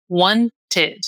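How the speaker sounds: "wanted" in two clear syllables, WAN-ted; model pronunciation. Shown as a demonstration. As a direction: say "wanted" with an unstressed, audible "ed". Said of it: "eu vou pronunciá-lo". ("wanted" bem articulado, com "ed" fraco no final)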